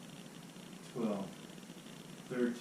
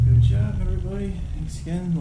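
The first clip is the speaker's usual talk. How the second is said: loud, cheerful coach wrap-up; upbeat sign-off; 6 semitones higher, 12 dB louder than usual. Real, not acted. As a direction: cheer the class at the finish.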